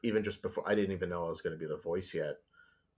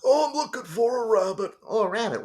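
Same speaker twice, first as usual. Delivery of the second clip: Beaky Buzzard voice; 8 dB louder than usual. Retold or imitated. Retelling his pitch, voicing Beaky high and loud. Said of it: "I did Bugs talking to Beaky".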